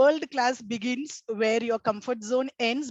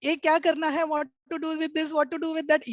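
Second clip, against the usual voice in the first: whiny complaint; 4 semitones higher, much faster than usual. Retold or imitated. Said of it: "This always you'll listen".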